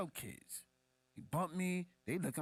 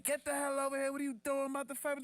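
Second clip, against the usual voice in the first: scolding mom; 13 semitones higher, faster than usual. Retold or imitated. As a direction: play the mom yanking him by the arm.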